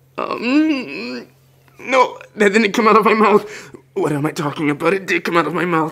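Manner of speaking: flustered, high-pitched nervous rambling. Just kissed on the cheek, a character rambles like a nervous wreck. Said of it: "I'm a nervous wreck".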